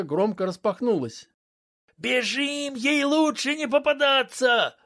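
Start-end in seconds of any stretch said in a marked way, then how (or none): 2.0-4.8 urgent. Acted. Urging escape from the woman.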